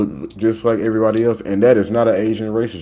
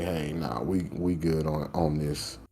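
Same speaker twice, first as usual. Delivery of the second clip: mock dismissive company; 5 semitones lower, 11 dB quieter, slower than usual. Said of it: "they wanna show out and say".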